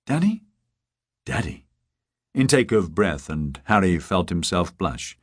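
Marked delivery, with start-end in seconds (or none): 0.1-0.4 high rising, confused "Daddy?"; puzzled question. Acted. Woman confused on phone. 1.2-1.7 "Daddy." said low and soft; flat, lower and quieter "Daddy."; low flat repeat. Acted. Harry repeats, embarrassed.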